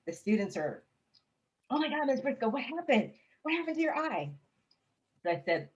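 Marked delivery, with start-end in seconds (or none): 1.7-4.3 students' shocked question. Retold or imitated. Students shocked by eye patch.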